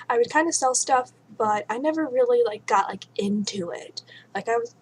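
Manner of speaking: hiccups breaking the words; speech broken by hiccuping. Real, not acted. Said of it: "I can't stop hiccuping".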